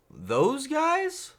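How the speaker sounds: can't believe it's them; surprised disbelief. Retold or imitated. Retelling meeting the game developers, surprised. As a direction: pitch jumps high on guys, incredulous. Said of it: "And I was like".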